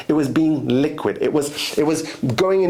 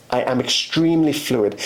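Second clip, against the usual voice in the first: "extremely fluid" lower, each word weighted; emphatic stress; 4 semitones lower than usual. Real, not acted. Drumming it into listeners' heads, emphatic stress. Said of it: "I'm emphasizing on this word".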